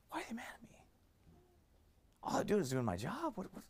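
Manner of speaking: whispered mock self-pity; mock whining whisper. Pastor mocking a Christian puzzled by coworkers, whispered whine. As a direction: imitate a puzzled worker, hushed.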